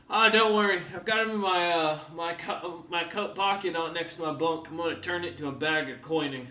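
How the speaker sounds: put-on loud, wry old sailor brushing it off; joking old man. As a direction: laugh off your own misfortune.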